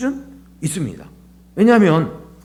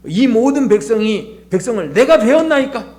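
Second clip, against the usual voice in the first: Moses complaining; 4 semitones higher than usual. Retold or imitated. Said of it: "모세가 불평을 하고 있다는 거죠".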